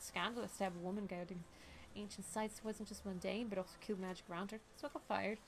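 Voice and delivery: even, restrained character reading; game dialogue reading. Acted.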